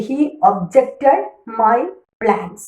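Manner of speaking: slow example, objected stressed on JECT; verb stress, second syllable. Shown as a demonstration. Teacher gives a verb sentence, objected slowly stressed on JECT. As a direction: punch the middle syllable of objected. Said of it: "ഒബ്ജക്റ്റിൻ്റെ അടുത്താണ് stress വരുന്നത്".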